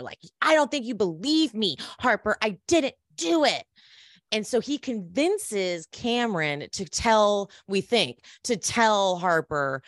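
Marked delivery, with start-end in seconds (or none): 0.4-3.6 pitched-up pleading, mildly angry; retold exasperated protest. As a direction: plead your innocence with mild exasperation. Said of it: "mad at her".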